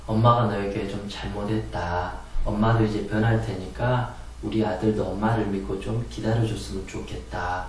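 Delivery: soft, low motherly apology; tender mother to an upset son; gentle apology. Shown as a demonstration.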